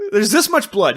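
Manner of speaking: laughing while talking; breaking up with laughter. Real, not acted. Still laughing at the scene.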